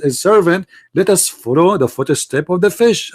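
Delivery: ordinary talk, nothing marked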